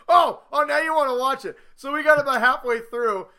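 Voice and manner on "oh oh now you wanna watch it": smug gotcha. Retold or imitated.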